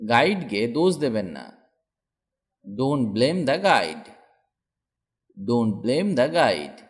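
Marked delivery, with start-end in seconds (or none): 2.8-6.8 very slow, each word laid out for learners; slow model sentence. Shown as a demonstration. Teacher modelling a sentence for students, very slow. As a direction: spell it out slowly so a learner can copy. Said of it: "teacher models sentence for learners".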